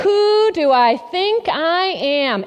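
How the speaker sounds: slow, scoffing who do I think I am; scornful tone. Retold or imitated. To the group, mimicking the inner critic, slow and scoffing. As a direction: drag out Who like a put-down. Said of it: "At that tone of voice".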